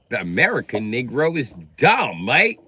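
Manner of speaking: imitated British accent, rising on "mate". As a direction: put on a mock British accent. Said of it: "when they come from Britain".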